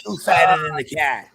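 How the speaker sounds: put-on Boston accent. Co-host finishing the fart gag, mock Boston accent. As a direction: draw it out like a Bostonian, amused. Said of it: "say it with the Boston accent".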